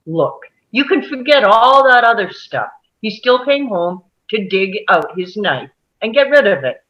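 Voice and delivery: quick annoyed push-back. Acted. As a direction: brush the argument aside, irritated.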